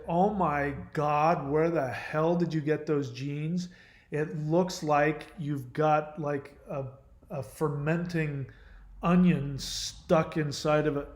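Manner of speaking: slow, drawn-out mock disbelief; acting out a brutally blunt answer, slowly; mock appalled. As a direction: draw out each word in exaggerated dismay. Blunt answer you don't give.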